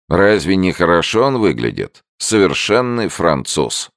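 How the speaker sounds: put-on proud old woman. A narrator's reading. Old woman admires Andrews.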